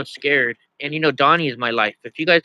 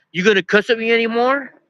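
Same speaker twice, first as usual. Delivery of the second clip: higher-pitched mimicry of a challenging woman; imitated confrontational lady; 7 semitones higher than usual. Lady challenges the man who cussed, high-pitched imitation. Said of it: "this lady's like".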